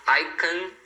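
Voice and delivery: can said short with a weak vowel; reduced can. Shown as a demonstration. Teacher shows learners the affirmative, reduced can. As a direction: shrink can to an unstressed kn. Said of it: "Ele é reduzido".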